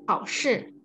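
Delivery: 考试 with careful dipping then falling tones; pronunciation model. Shown as a demonstration. Teacher corrects student's word, careful tone model. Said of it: "itu, bilang 考试".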